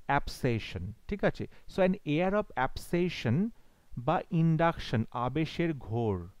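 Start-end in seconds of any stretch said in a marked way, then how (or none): 0.0-0.9 অ্যাবসেশন with an open "ab-" first vowel; corrected pronunciation. Shown as a demonstration. Teacher correcting how students say obsession, অ্যাবসেশন opening with "ab-". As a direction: say অ্যাবসেশন starting "ab-", not "ob-". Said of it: "আসল উচ্চারণ অ্যাবসেশন".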